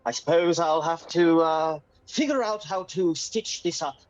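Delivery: posh English. Acted. Posh English gentleman character.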